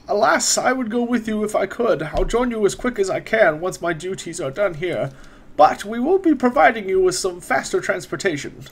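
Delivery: a hint of a courteous court wizard, unhurried; wizard NPC voice.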